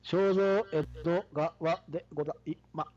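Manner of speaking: stiff robotic syllables. Pretend. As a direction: speak like a choppy robot. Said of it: "今日はロボット風で行ってみました".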